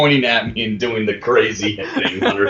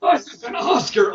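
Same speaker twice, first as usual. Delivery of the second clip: terrible voice; 9 semitones higher than usual. Retold or imitated. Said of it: "doing this terrible voice".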